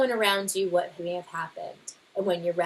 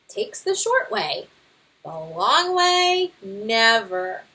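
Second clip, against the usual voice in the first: louder, blustering know-it-all father bear; boastful Papa Bear; 3 dB louder than usual. Acted. Father bear brushing off the scouts' guidebook, boastful. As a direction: scoff at the book with bravado.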